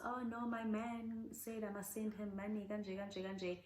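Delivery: high, soft put-on voice of a smitten woman; mocking gullible girlfriend. Mocking women sending money to unseen online boyfriends, high put-on voice. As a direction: mimic her fretting over her online man. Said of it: "they're talking about".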